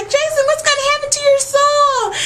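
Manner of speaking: very high, pleading whine; hammed-up prissy plea; mock Sarah Newland. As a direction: beg for mercy in a squeaky voice. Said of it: "she like".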